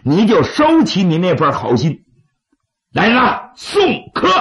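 defiant bandit chief, rising to a shout; proud outlaw dismissing a guest; gravelly dramatic storyteller. Acted.

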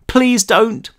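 high, pleading through tears; sobbing. A narrator's reading. Daisy begging the police, high sobbing plea. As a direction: beg while crying.

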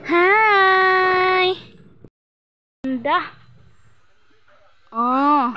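high, loud drawn-out hi to a dog; cooing to dog. Real, not acted. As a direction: stretch out a friendly greeting to a pet. Greeting the friendly dog.

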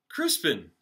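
loud angry call of a name; shouting. Acted. Father scolding his son at the party, shouting. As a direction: yell his name sharply. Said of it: "shouted his father".

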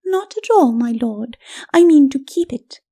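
high, mock-polite lady's refusal; high, self-possessed ladyship; cool lady. Lady coolly refuses him.

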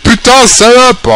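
high, drawn-out angry swearing; angry cursing. Real, not acted. Player who just lost a Pokémon, angry cursing. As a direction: curse the opponent, stretching it out high. Curses after losing a Pokémon.

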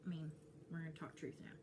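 ordinary talk, nothing marked

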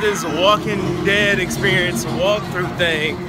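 nervous and keyed up; scared. Real, not acted. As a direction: talk fast through rising nerves. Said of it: "I'm scared as fuck".

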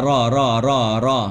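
"รอ" with lips not rounded; drilled "รอ", lips relaxed; unrounded lips. Shown as a demonstration. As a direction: say each "รอ" separately without pursing the lips. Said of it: "พยายามอย่าหอปากนะ".

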